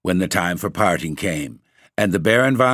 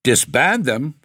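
higher, rising cry of disbelief; amazed cry; 5 semitones higher, slower than usual. A narrator's reading. Baron echoing his wife's demand, crying out in amazement. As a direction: throw it back as an astonished question. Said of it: "cried the Baron in amazement".

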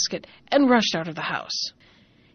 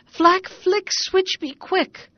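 cried spell; 10 semitones higher, 4 dB louder, much slower than usual. Acted. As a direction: spell words cried out high and loud, the last slowed right down. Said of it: "he cried".

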